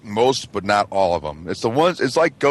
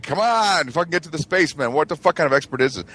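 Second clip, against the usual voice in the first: exasperated viewer; 5 semitones higher than usual. Retold or imitated. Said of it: "you're like".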